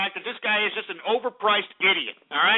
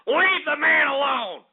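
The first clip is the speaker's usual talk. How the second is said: heated; 6 semitones higher than usual. Real, not acted. Host defending Herman Cain heatedly.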